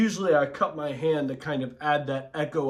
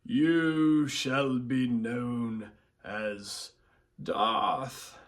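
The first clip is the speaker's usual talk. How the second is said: Darth Sidious; much slower than usual. Retold or imitated. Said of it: "another line of Darth Sidious's".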